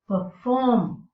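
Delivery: per-FORM, first syllable light; second-syllable stress. Shown as a demonstration. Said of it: "the second syllable is stressed".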